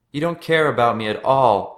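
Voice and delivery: hurt, furious outburst; angry yell. A narrator's reading. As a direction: yell it into his face. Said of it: "Paul yelled into Mark's face".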